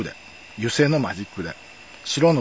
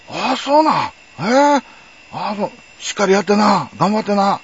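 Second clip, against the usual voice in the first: higher, louder, all smiles now; suddenly friendly cop; 9 semitones higher, 7 dB louder than usual. Retold or imitated. Cop warms up to the young manga artist, suddenly chummy and loud. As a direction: flip from bully to buddy, pitch jumping up. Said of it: "急に腰低くなっちゃって".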